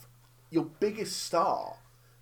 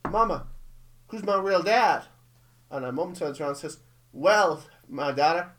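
put-on Southern accent; 4 dB louder than usual. Retelling Mamma Mia's mother and daughter, mock Southern accent. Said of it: "why she talks in this accent".

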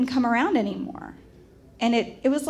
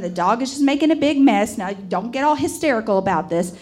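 raised, placating husband in a mild squabble; bickering grandfather; 2 semitones higher, 4 dB louder than usual. Retold or imitated. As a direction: play a grandpa insistently explaining it away. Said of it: "my grandparents bickering".

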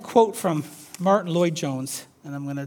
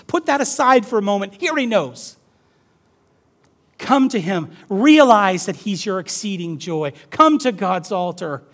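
raised, emphatic pulpit voice; preacher's exhortation; 4 semitones higher, 8 dB louder than usual. Acted. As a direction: urge the congregation on, phrase by phrase. Exhorting the congregation.

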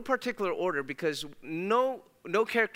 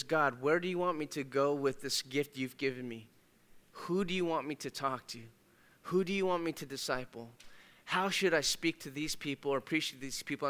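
humble prayer; 3 semitones lower, 5 dB quieter than usual. Retold or imitated. Humble believer prays to God.

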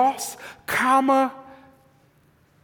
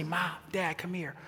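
son's whisper, soft but not hushed; a boy who can't really whisper; loud failed whisper; 5 semitones lower, 15 dB quieter than usual. Retold or imitated. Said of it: "whispers like my oldest son".

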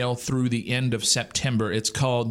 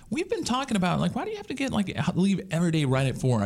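high mock question; 5 semitones higher, faster than usual. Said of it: "I go".

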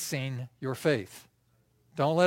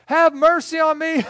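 high, full-voiced cry for mercy; loud yelling; 10 semitones higher, 8 dB louder than usual. Blind man with friends covering his mouth, yelling. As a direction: shout it as if fighting off hands. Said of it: "the louder he gets".

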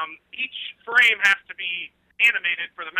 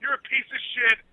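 a hint of a brash UFC boss hyping the card, swearing at fans; Dana White rant; 2 semitones higher than usual. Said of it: "in your Dana White impersonation".

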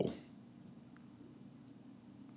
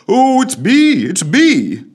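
high, loud delighted squeal; gibbering excitedly; 7 dB louder, slower than usual. A narrator's reading. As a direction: gush with joy. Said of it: "he began to gibber excitedly".

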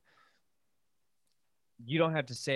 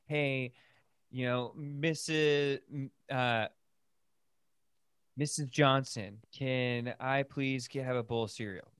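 louder, slow, careful politeness; extra polite request; 3 semitones higher, 4 dB louder, slower than usual. Retold or imitated. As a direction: ask the neighbor's mom very politely. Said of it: "be like".

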